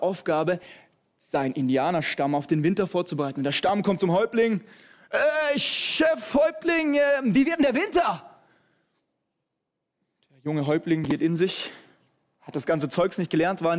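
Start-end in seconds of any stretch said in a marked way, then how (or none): 5.1-8.3 eager tribe calling. Acted. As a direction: call up excitedly to the chief. Tribe calls to their chief.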